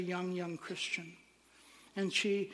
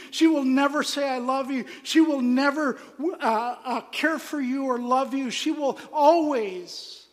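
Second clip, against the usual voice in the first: loud, raised-pitch public challenge; jeering denouncer; 6 semitones higher, 10 dB louder than usual. Retold or imitated. Man offers rejected woman to jeering crowd, loudly denouncing her. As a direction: denounce her forcefully to a whole stadium. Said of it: "people who were jeering at me".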